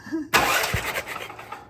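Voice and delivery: breathy chuckle; short laugh. Real, not acted. Mechanic amused at the engine he spins over, chuckling. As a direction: let out an unvoiced little laugh.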